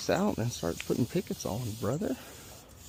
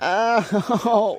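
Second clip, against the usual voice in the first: pained ow; 8 semitones higher, 7 dB louder than usual. Real, not acted. Toe pain.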